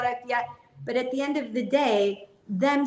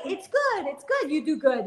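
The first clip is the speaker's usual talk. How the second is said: higher, airy brush-off of praise; lightly voiced dismissive Rebbe; 6 semitones higher than usual. The Rebbe brushing off her good deeds, light high mock tone. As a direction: wave it off as no big deal. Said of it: "Yeah, like".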